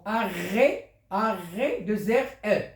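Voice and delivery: "arrêt" with the R sound held out; double R stressed. Shown as a demonstration. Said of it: "Il y a deux R".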